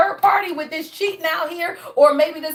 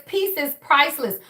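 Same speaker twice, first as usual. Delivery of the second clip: slow, calm reading of a card message; slower than usual. Shown as a demonstration. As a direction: read the message out slowly, like a proclamation. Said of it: "It says".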